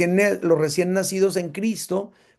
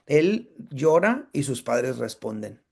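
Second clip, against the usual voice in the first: slow, patient neonatologist voice; calm quoted doctor; 4 semitones lower, slower than usual. Retold or imitated. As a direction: lay it out slowly like the neonatologist. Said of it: "la neonatóloga nos dijo".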